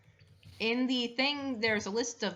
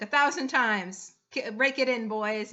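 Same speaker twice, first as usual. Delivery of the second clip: triumphant boast; 4 dB louder than usual. Acted. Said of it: "she lifts up".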